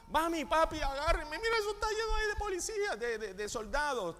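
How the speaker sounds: put-on high, fast, panicked child crying for mom and dad; scared child. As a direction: squeal it like a frightened kid. Niño asustado corre adentro. (niño asustado, voz aguda y rápida)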